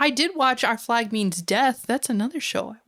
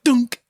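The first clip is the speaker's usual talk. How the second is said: sound effect; 2 semitones higher, 5 dB louder than usual. Retold or imitated. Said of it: "you know the noise I mean".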